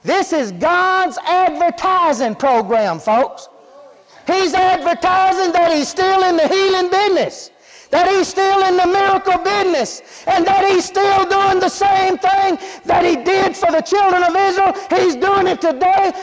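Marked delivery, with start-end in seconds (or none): 4.3-16.1 building preaching, climbing to a shout; fired-up preacher reaching the climax; rising preacher shout. Acted. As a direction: build it up and let it ring out.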